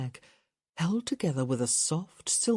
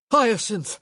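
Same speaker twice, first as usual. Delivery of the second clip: breathless call; 5 semitones higher, 8 dB louder than usual. A narrator's reading. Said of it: "out of breath from taking four flights".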